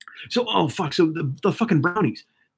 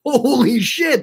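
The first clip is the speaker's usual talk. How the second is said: laughing; 8 semitones higher, much slower than usual. Real, not acted. Laughing at his own joke.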